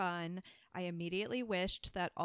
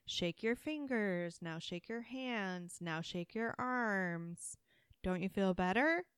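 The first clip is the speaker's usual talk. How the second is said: mock guided voiceover. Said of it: "the voiceover was saying".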